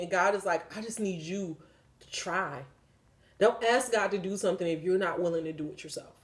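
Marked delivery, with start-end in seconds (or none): 0.8-2.6 soft, choked-up plea; close to tears. Real, not acted. God pleading with someone who screams at Him, close to tears. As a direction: let the voice drop, fighting back tears. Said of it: "I'm not gonna cry".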